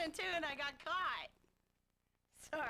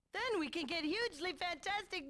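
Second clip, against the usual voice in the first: Arnold impression. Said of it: "I was doing Arnold".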